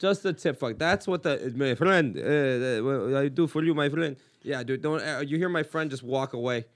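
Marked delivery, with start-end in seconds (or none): 1.6-4.1 imitated Arab haggler's accent; stumbling mock Arab merchant's accent. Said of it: "When the Arab man says".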